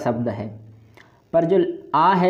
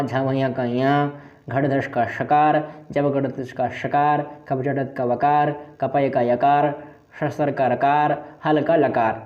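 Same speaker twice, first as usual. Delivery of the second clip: sutra listing. Shown as a demonstration. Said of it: "कैसे होगी".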